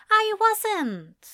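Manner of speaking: high, flustered protest; flustered angel. A narrator's reading. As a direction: stammer out a denial. Aziraphale denies.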